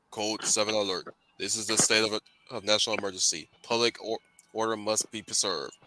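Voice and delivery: flat robotic announcement. Pretend. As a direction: metallic announcer voice. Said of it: "let me try my, my, my robot voice".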